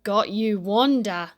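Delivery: the kite springs its trap; sly kite voice. Acted. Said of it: "said the kite".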